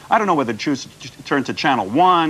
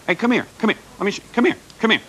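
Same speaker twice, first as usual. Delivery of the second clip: higher, coaxing call across the studio; calling someone over; 7 semitones higher, faster than usual. Real, not acted. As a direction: beckon her over, teasing.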